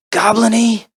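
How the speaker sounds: high, loud goblin demonstration; imitating someone suggesting a goblin sound. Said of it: "goblin noises and growly stuff".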